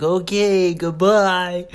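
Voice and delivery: high, sing-out goodbye; hammed-up awkward exit; sheepish retreat. Meek retreat after rejection.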